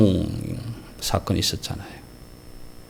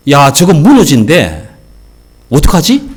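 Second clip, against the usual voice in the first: panicked; 4 semitones higher, 8 dB louder than usual. Acted. Panicked reaction to warning.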